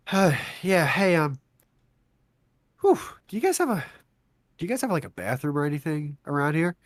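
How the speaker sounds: woozy, faint asking. Retold or imitated. Woozy man asking for bathroom.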